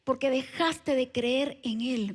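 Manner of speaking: hablado un poco más bajo y grave, como voz interior; voz de Dios al corazón. Retold or imitated. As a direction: ligera voz de Dios, suave y pausada. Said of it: "el Espíritu Santo me habla a mi corazón y me dice". (voz divina suave, contenida)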